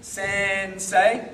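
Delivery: Sen stretched out long, then say; slow first syllable. Shown as a demonstration. Teacher recapping what is no good, slow first syllable. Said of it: "no good".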